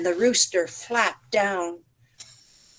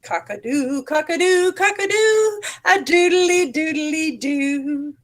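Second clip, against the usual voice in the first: rooster crowing; 7 semitones higher than usual. A narrator's reading. Rooster shows the animals how he sings, crowing. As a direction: crow like a rooster. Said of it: "Rooster went".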